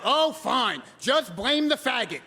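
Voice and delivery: high, loud, hammed-up tantrum; flipping out. Boyfriend told to stay away, flipping out loudly. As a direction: imitate a wounded, indignant boyfriend. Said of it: "Well, John flips out".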